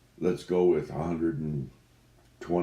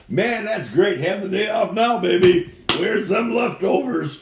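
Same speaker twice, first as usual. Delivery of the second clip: excited; 11 dB louder than usual. Acted. Drops the act, celebrates day off.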